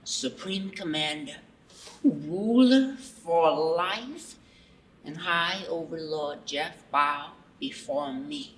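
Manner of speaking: grandiose self-proclaimed overlord; booming megalomaniac ruler addressing subjects; dark lord. Acted. Plays self-crowned overlord Jeff.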